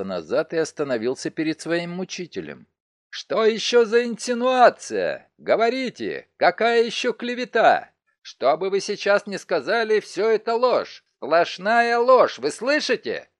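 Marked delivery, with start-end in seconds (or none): 3.1-13.3 loud, high, outraged denial, spitting out each lie; indignant outburst. Acted. Alban shouts at his tormentor that it is all a lie, outraged.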